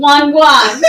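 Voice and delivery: loud laugh through the words. Real, not acted. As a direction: crack up laughing. Laughing at the word.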